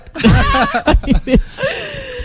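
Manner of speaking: a long, high burst of real laughter. Real, not acted. Host laughing hard at his own bottom joke, high laughter. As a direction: let a big laugh go, high up.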